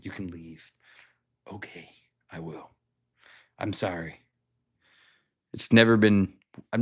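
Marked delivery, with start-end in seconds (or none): 0.0-0.7 low dismissive owner. Retold or imitated. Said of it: "half of the stores in Mississippi were like". 1.5-4.2 low meek apology. Retold or imitated. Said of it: "own reply".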